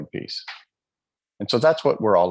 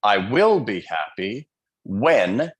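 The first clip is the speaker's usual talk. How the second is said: devil's voice; slower than usual. Retold or imitated. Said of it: "that's his voice".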